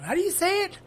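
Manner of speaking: mock yelling at the announcer; retold yell. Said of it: "yell at him".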